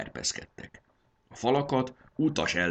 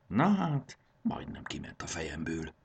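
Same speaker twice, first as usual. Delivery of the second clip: muttering to himself. Acted. Conductor mutters to himself at the door, mumbling. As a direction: mumble it under your breath. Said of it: "Dünnyögte magában".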